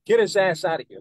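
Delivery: lightly acted angry dismissal; imitated rude order. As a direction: imitate officials kicking someone out. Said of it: "they were like this".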